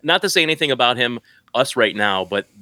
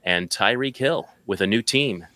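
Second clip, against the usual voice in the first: top ten countdown. Acted. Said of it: "you used your announcer voice to tell us what the twelve".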